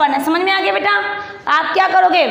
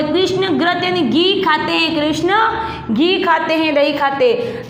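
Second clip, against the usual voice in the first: slow explaining read; slower than usual. Shown as a demonstration. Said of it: "Krishna यानी जो अपने".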